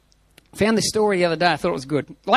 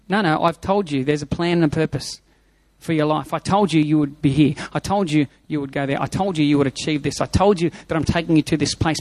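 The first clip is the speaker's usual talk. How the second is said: God gently insisting, a little lower; God speaking gently; 6 semitones lower than usual. Acted. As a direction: patiently remind a forgetful child. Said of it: "does God have to tell you".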